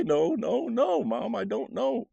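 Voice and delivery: high-pitched, repeated denial; insistent child. Retold or imitated. Child telling mom none of the photos match, insistent. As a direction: imitate a kid fending off questions. Child answering mom's frantic questioning.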